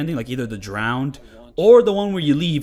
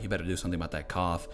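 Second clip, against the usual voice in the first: low, soft, quick mock threat; threatening; 8 semitones lower, 10 dB quieter, faster than usual. James warning his coughing wife, low and menacing. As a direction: mutter it low and fast like a veiled threat. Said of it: "in a kind of threatening way".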